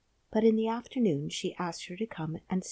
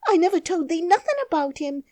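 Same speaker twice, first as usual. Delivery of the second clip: frightened Yorkshire maid; half crying; 12 semitones higher, 11 dB louder, faster than usual. A narrator's reading. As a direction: plead near tears. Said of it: "half crying".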